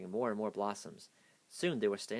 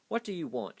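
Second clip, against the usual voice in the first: sharp, higher, irritated question; snapped; 7 semitones higher, 3 dB louder than usual. A narrator's reading. Stormella snapping at Rudolph at her door. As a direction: cut him off curtly. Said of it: "she snapped".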